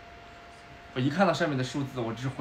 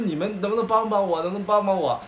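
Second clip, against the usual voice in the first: higher, louder desperate begging; panicked plea; 7 semitones higher, 5 dB louder than usual. Retold or imitated. Fleeing dreamer begs passers-by, loud and panicked. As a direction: cry out to strangers for help.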